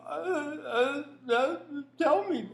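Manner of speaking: high, stammering, stunned; mock flustered host. Interviewer caught off guard, mock stammering. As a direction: play the fumbling host. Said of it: "you get like".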